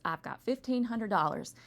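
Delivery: lightly hammed-up Southern twang; Southern accent. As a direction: put on a Southern accent for a retold joke. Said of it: "he's got this thick Southern accent".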